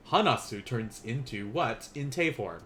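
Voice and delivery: a hint of the stern sensei asking the class; deep teacher voice. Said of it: "My deep Tiger Sensei voice".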